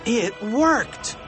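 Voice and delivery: put-on high, excited boyish cry; exclamación triunfal. A narrator's reading. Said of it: "cried George".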